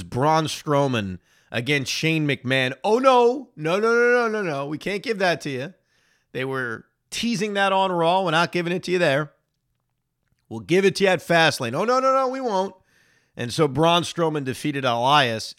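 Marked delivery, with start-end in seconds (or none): 2.8-12.7 higher, singsong mocking of the company; a hammed-up smug WWE voice; mock teasing promoter. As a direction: tease the fans like a smug promoter.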